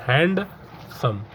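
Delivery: हैंडसम said slowly as हैंड and सम, two clear parts; split into syllables. Shown as a demonstration. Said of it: "दो part में".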